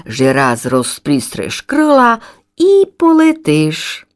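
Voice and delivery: slow, earnest explaining; serious mother. Acted. Mother swallow answers her chick, slow and serious. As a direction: spell it out slowly so the child understands. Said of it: "повіла серйозно мама Ластівка".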